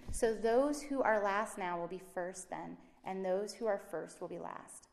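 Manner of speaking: measured Bible reading to the congregation; steady public reading of scripture. Acted. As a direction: read the parable aloud with care. Reads scripture aloud.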